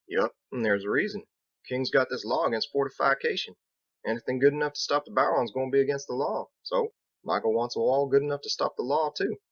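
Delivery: easygoing country mason, a bit worried; lightly voiced Biggs. Biggs telling Captain about the north, folksy and worried.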